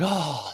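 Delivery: soft melting "oh"; long, quiet exhale of relief; sigh of relief. Retold or imitated. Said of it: "when you get this relief".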